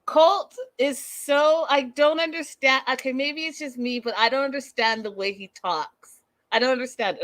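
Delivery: baffled; exasperated. Real, not acted. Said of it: "let me get into character".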